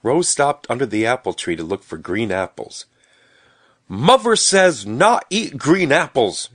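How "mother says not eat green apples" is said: put-on high, loud, slow little-boy protest; child's shout. A narrator's reading. Little Stubby warning Rose off green apples, shouted. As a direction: shout it slowly in a high babyish voice. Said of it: "shouted Stubby".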